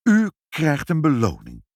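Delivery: high, loud announcement; calling out. A narrator's reading. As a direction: call it out excitedly. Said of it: "riep meneer Sinkel".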